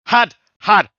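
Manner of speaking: high, loud one-word shouts; shouted. Retold or imitated. Friend bellowing at a stranger's silly hat, shouted. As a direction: yell it in separate bursts, pitched right up. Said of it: "Barmy was shouting".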